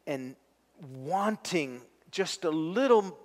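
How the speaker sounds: earnest spoken prayer, unhurried. Acted. Pastor leading the congregation in prayer, earnest and steady. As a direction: pray for the struggling friends, gently.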